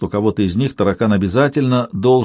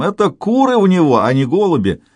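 cackling laugh; 7 semitones higher than usual. A narrator's reading. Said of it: "гоготал Коська то басом, то тенором".

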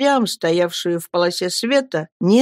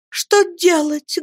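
put-on high, slow, anguished girl; girl's despairing cry; 11 semitones higher, slower than usual. Girl wails what to do, high and anguished. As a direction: wail the question. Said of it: "воскликнула Мириам".

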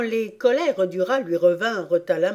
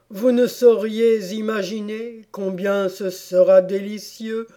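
mildly doleful, lilting recitation; languid, desolate verse; 4 dB louder than usual. Acted. Turtle performs the lobster song for Alice, mildly languid and desolate. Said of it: "d'une voix languissante et désolée".

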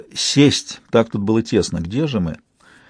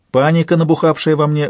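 ordinary delivery, nothing marked

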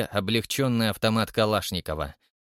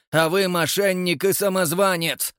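indignant shout; 8 semitones higher, 4 dB louder than usual. Acted. Character quarrel in dark hall.

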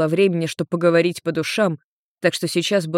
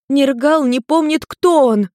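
high, loud and slow, insistent; urgent shout; 8 semitones higher, 4 dB louder, slower than usual. A narrator's reading. Maimi pleading with Ian, high loud insistent. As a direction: make him hear it. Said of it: "выпалила Майми".

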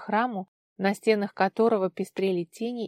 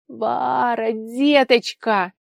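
louder, very slow drawn-out call; excited greeting; 4 semitones higher, 9 dB louder, much slower than usual. Acted. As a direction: stretch out «деточка» with relief. Aunt rushes to her niece. (радостно-протяжное обращение)

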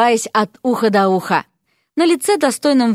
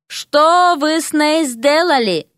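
higher, slow horrified question; aghast; 6 semitones higher, slower than usual. Acted. Prince horrified at the painted bride, slow aghast question. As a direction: recoil at the sight of her.

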